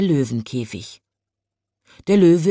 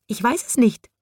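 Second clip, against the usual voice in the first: embarrassed robin; 7 semitones higher than usual. A narrator's reading. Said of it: "es pickte verlegen vor sich hin".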